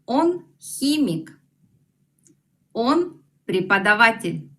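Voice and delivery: teacher demo for repeating; slow model phrase. Shown as a demonstration. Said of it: "En ruso tenemos". (modelo lento)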